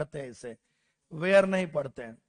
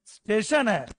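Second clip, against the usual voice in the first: louder, slower correction; insisting teacher; 2 semitones higher, 5 dB louder than usual. Retold or imitated. Teacher correcting a student's स्टेशन, louder insisting. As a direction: stress the right स्टेशन firmly. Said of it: "पांच बार बोला".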